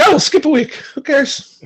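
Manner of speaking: high, flippant mock Rooney; breezy high who-cares; careless high voice. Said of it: "this guy is so quickly to be like".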